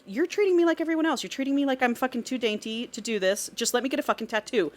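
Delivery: acted-out protest, pushing back at him; indignant retort. Heroine telling off her protective man, indignant.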